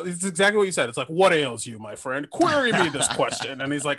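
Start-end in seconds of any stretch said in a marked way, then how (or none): 1.1-3.6 lightly voiced lofty intellectual; Frasier. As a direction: pose the question with a touch of mock grandeur. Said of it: "he sounds exactly the same".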